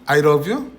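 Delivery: "love" said with an R, like "rob"; mispronounced L. Shown as a demonstration. Teacher imitating learners who can't say L, mispronounced L. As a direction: turn the L in "love" into an R: "rob you". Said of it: "이러거든".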